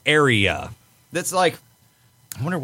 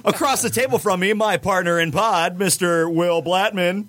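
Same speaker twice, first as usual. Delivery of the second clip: higher, cheesy host introduction; lame announcer voice; 4 semitones higher than usual. Acted. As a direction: introduce each name like a corny emcee. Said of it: "the greatest lame announcer voice ever".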